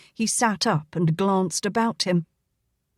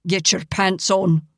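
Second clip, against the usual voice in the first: sharp command. Acted. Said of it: "Angus commanded sharply".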